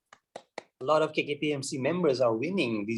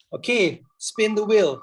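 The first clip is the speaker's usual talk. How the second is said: hyped call; 6 semitones higher, 6 dB louder than usual. Acted. Host calling to spin.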